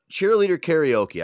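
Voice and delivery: loud, slow and punchy, selling the idea; excited pitch. Real, not acted. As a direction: announce it like a headline. Pitching his show idea.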